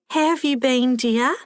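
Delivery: put-on high, sweet old lady asking after someone; lilting, kindly old-lady question; Helen, elderly friend.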